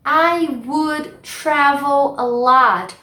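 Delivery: very slow, word by word; slow model phrase. Shown as a demonstration. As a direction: spell it out for students. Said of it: "slow demonstration". (bem devagar, palavra por palavra)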